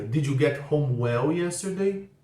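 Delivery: "Did" put first, said slowly with stress on "yesterday"; slow question. Shown as a demonstration. Teacher modelling the question with did, slow. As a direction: ask it slowly, landing on "yesterday". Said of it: "a pergunta fica".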